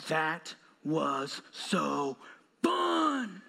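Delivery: put-on slow, drawn-out delighted child; little girl voice. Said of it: "and she goes".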